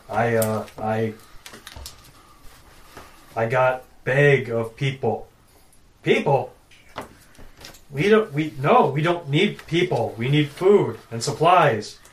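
loud, slow brutish giant; dumb giant voice. Acted. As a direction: boom it out like a dim giant.

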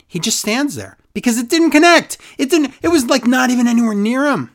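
high, amused disbelief; excited disbelief. Real, not acted. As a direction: marvel at the botch. Laughing at botched kick.

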